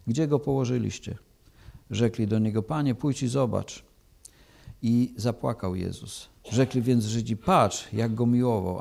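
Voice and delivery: measured, solemn Gospel reading; scripture reading. Acted. Preacher reading John to the church, solemn and measured. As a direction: read the Gospel to the congregation with gravity.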